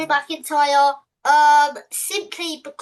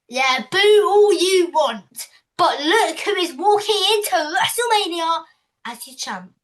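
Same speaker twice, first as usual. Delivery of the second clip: sneering wrestling villain; 3 semitones higher, 4 dB louder than usual. Pretend. Heel champion taunting booing crowd.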